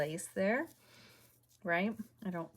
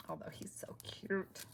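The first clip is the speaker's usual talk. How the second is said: whispered aside; 7 dB quieter than usual. Real, not acted. Whispering over a cute craft piece.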